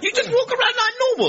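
put-on high, loud incredulous young chap; mock amazement at something utterly ordinary; baffled disbelief. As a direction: squeal it back as an astonished question. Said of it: "he was absolutely baffled by that".

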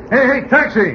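high call to hail a cab. Acted. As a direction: call out sharply for a taxi. Hails a taxi.

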